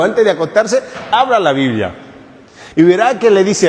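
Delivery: laughing through the advice. Real, not acted. Priest joking with the congregation, laughing. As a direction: chuckle while telling them to open the Bible.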